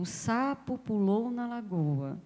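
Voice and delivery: "O sapo pulou na lagoa" read slowly, word by word, leaning on "sapo"; slow, deliberate reading of a sample sentence; slow reading aloud. Shown as a demonstration. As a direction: read it like a line off the page, unhurried. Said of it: "Eu tenho, por exemplo".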